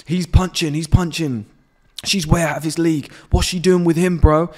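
high, loud, outraged mock whine; mocking jealous guys. Mocking the guys who never approached, high and outraged. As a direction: sneer like a jealous lad who can't believe it. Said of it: "And then guys are going".

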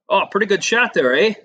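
mock-Canadian lilt with a questioning "eh"; imitated Canadian curler. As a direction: mimic a Canadian teammate praising a shot. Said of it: "they do talk like that".

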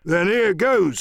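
high-pitched burst of pirate temper; rough-tempered seaman's cry; swearing Morgan. Acted. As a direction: launch into it like a sailor about to fight. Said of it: "said Morgan with an oath".

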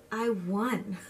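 laughing with disbelief. Real, not acted. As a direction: say it through a laugh. Winning pageant, laughing.

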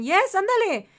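high, loud urging; impatient excitement. Real, not acted. Player told to hurry back to new pet, impatient. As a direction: burst out, hurrying them along. Hurrying game character along.

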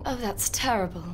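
put-on British-accented echo; mimicking a British speaker. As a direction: parrot the line with a British accent. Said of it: "great at British accents".

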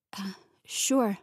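whispered and unsure; dazed whisper. A narrator's reading. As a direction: breathe it out, stunned. Dazed, wits not yet gathered.

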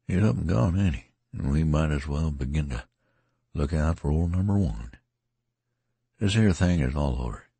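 musing, tired rustic soldier; lightly voiced tattered soldier. Tattered man voiced in reading.

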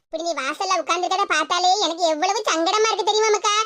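mother feigning love to coax the daughter home; put-on affection. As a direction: lay on the fake tenderness. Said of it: "பாசம் பொங்குற மாதிரி பேசிக்கிட்டு".

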